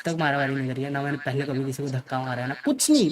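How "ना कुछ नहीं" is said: 1 emphatic denial. Real, not acted. Insisting never fought.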